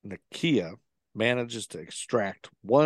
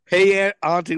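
smooth quoted greeting; 8 semitones higher, 8 dB louder than usual. Retold or imitated. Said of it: "he's just so smooth with it".

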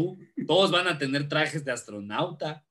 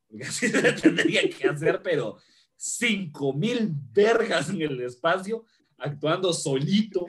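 laughing; 3 semitones higher than usual. Acted. Mocking Tom Cruise acting alone.

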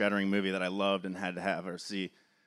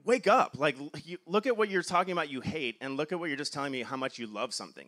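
exasperated plea at a complainer; half-mock outburst; 4 semitones higher than usual. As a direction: snap them awake, then run out of steam. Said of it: "you just wanna scream at the top of your lungs".

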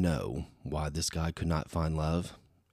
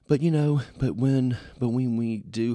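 suddenly louder, higher, emphatic restart; 7 semitones higher, 7 dB louder than usual. Real, not acted. Vlogger jumps back in, loud and emphatic. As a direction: jump in loud and high to make the point.

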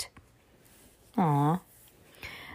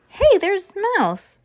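high, drawn-out exclamation; delighted kid pitched up high; excited discovery; 10 semitones higher, 4 dB louder, slower than usual. A narrator's reading. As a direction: call out what you've spotted. Brother spots the cat in photo.

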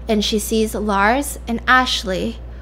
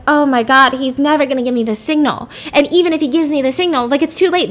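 rising panic, fast and higher; panicked; 4 semitones higher, faster than usual. Retold or imitated. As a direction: rush it out in a panic. Panicking inner thoughts.

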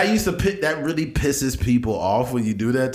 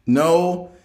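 usual speaking voice

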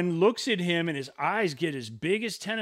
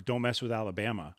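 laughing mock quote; 4 semitones lower, 5 dB quieter, faster than usual. Mocking the man's phrase.

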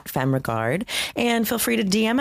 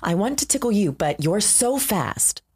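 news anchor voice; 4 semitones higher than usual. Pretend. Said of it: "News anchor, yes".

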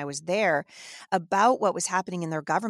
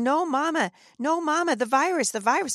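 higher-pitched imitation of a scared child; retold tearful plea; 8 semitones higher than usual. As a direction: mimic a frightened little boy pleading with mom. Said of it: "he's crying and he's saying".

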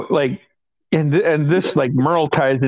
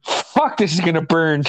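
dreading the shot. Retold or imitated. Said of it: "like, thinking".

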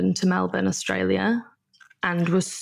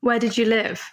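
whispered question; 3 semitones higher than usual. Real, not acted. Guest asks host quietly.

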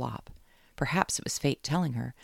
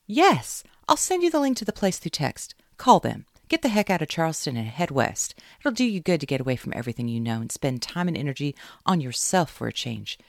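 much higher, louder delighted urging; pleased with herself; 3 semitones higher, 5 dB louder than usual. Acted. Caroline sending Kate west, delighted and loud. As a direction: sound thrilled with your own idea. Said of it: "pleased with herself".

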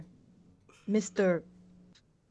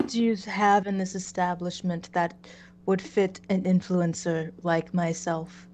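flat monotone influencer voice; deadpan monotone, no emotion; 3 dB louder than usual. Acted. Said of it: "the most monotone voice imaginable".

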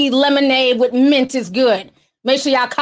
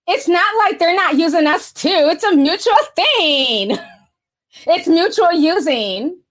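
put-on Valley Girl voice; 2 semitones higher than usual. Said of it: "I got my Valley Girl voice on".

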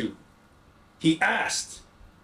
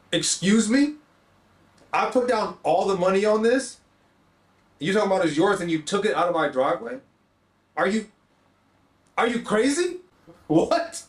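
higher, indignant retold outburst; retold argument; 4 semitones higher than usual. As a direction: replay the disbelieving fight. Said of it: "we're arguing".

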